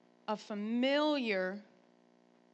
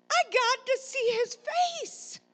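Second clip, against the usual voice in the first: high, loud, slow desperate plea; retold yell; 12 semitones higher, 5 dB louder than usual. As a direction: holler it out, stretching each word. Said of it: "I yelled in the mo".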